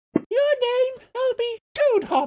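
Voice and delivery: tiny, very high, squeaky pixie voice. A game master voicing the pixie Master Plum giving a player a pixie name: squeaky voice. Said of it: "Squeaky voice time".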